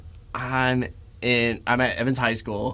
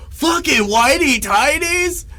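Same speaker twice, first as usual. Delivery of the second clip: high, slow mock taunt; mocking bullies; 12 semitones higher, 4 dB louder, slower than usual. Bullies taunting him in high school, mocking. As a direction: sneer it like a teasing classmate. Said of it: "They're like".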